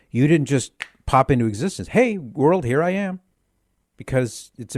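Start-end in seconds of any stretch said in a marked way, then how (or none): 1.9-3.2 higher-pitched, playful announcement of oneself; mock grand arrival. Radio host imagining someone popping into existence, playful high-pitched greeting. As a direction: pretend to pop up and greet the world, pitched up. Voices a newborn announcing itself.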